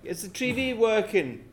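put-on drunk shouting.

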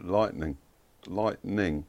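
"Lightning" as two syllables with the T swallowed; barely touch the T in "Lightning", straight into ning; silent T in lightning. Shown as a demonstration. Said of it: "you don't even say the T".

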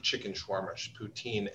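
talking through food; words round a bite; mouth full. Real, not acted. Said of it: "talking with our mouths full".

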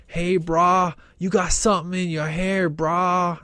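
laid-back surfer dude voice; stoned surfer; Bill and Ted surfer. Retold or imitated. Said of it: "talking exactly like, you know, Bill and Ted".

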